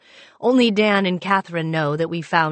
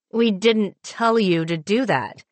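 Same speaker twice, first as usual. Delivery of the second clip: slow, teeth-clenched anger; through gritted teeth; 4 semitones higher than usual. Acted. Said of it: "through gritted teeth".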